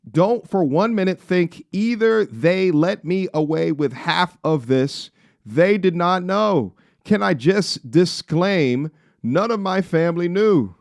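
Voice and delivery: high, loud, slow mock Scottish accent reading a post. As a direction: read it aloud in a put-on Scottish accent. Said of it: "I'm trying to read in a Scottish accent".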